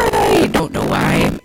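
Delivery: drawn-out, slow exasperated groan of words. Real, not acted. Radio host baffled by bad sound, exasperated. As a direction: drag it out in helpless exasperation. Exasperated rant about broken audio.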